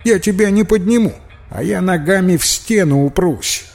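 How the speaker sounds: put-on a kid insisting he's the lighter one; arguing boy. Петька спорит с Михой, быстрым высоким детским голосом. Petka argues back.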